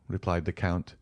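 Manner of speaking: plain reading voice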